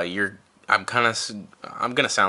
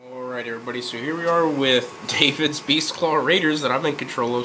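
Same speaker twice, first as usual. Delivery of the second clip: hoarse froggy voice from a cold; sick, croaky frog voice; 3 semitones higher than usual. Real, not acted. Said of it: "you guys can hear my frog voice 'cause I'm sick".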